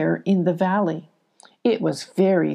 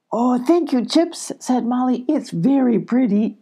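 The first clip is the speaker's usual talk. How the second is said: put-on light, higher grateful girl; Molly's voice; 5 semitones higher than usual. Molly thanking Chips the chipmunk, lightly raised girl's voice. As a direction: thank a friend sweetly.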